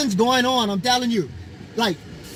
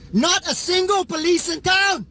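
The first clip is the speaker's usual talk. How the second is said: bitter yell at the empty streets; angry shout; 5 semitones higher than usual. Real, not acted. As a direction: shout it in outrage. Angry rant about missing police.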